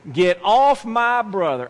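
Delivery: stern sister. Retold or imitated. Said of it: "she said".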